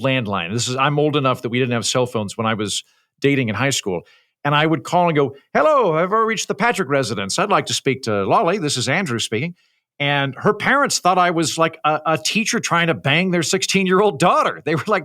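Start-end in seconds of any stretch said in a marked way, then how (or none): 5.5-9.6 put-on politely formal phone greeting from an overly adult-sounding teen; formal teenage caller. Teen phoning his girlfriend's parents, formal and radio-ready. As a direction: own announcer-like diction, higher opening. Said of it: "sounded just like this when I hit puberty".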